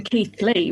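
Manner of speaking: Keighley with a clear th, "Keeth-lee". Shown as a demonstration. Host explains how the name became Keighley, said Keeth-lee. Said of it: "that's why it became Keighley".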